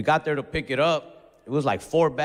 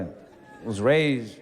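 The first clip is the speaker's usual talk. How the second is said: a slow stretched I was raised; slow drawn-out start; 5 semitones lower, much slower than usual. Shown as a demonstration. Comic stalling before the line, slowly drawn out. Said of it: "I was raised by immigrants".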